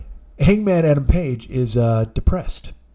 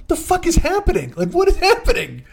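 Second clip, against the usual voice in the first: acted bewilderment; 12 semitones higher than usual. Imitating Ken watching the wrestling unfold, acted bewilderment. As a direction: play a lightly exaggerated confused question. Retelling friend's bewildered reaction.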